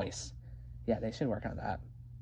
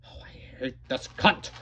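muttered aside; 2 semitones lower than usual. Acted.

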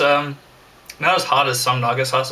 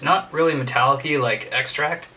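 talking while drooling. Real, not acted. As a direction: wet mouth, drooling. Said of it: "Sorry, I'm drooling like crazy".

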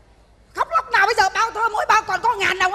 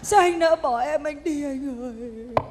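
pleading lament; 3 semitones lower, slower than usual. Acted. Begging lover not to leave.

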